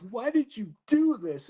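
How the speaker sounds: MP's demand. Retold or imitated. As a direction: press him for an answer. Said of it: "she goes".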